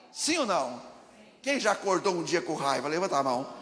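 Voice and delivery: loud call for hands up; calling out to the crowd. Real, not acted. Pastor asks the church to raise hands, loud call. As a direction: rouse the congregation with a loud question.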